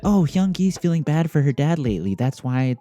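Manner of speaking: mock the excuse in a silly voice. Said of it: "don't even try to give me that".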